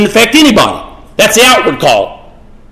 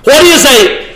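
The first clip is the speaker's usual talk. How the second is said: higher-pitched sermon delivery, stretched key words; emphatic preaching; 6 semitones higher than usual. Acted. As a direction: drive each point home like a preacher. Preaches with rising intensity.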